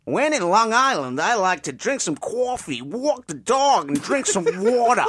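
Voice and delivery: hammed-up Long Island accent, slowed on walk the dog; mock Long Island accent. Shown as a demonstration. Actor auditioning, showing off a hammed-up Long Island accent. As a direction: ham up a Long Island accent in one breath. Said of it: "Do it again".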